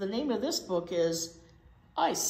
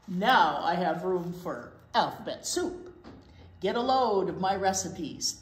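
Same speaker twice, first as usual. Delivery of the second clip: a lightly voiced swaggering truck; boastful garbage truck; slower than usual. Reading to kids, a cocky garbage truck brags. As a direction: brag like a proud garbage truck.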